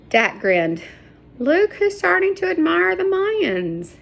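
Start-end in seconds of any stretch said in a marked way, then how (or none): 1.4-4.0 high, light teasing voice; teasing, a touch of whisper. A narrator's reading. Dak teasing Sarah while hiding, high and light. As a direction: tease her under the breath. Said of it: "he whispered".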